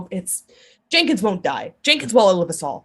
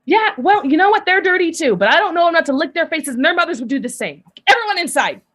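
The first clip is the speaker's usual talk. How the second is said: bossy mother; 7 semitones higher, 4 dB louder than usual. Acted. Mother answers, herds everyone in.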